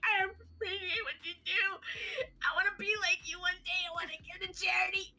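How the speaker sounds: high, rushed, mock-blubbering gush; losing it. Starstruck fan to charity lady, imitated tearful losing it. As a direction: imitate falling apart while thanking someone, words tumbling out. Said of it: "I'm losing my shit".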